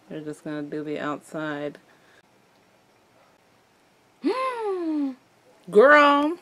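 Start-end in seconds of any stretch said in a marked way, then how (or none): 4.2-5.1 delighted gasp. Real, not acted. Sees finished lip. 5.7-6.4 excited. Real, not acted. Thrilled at lip.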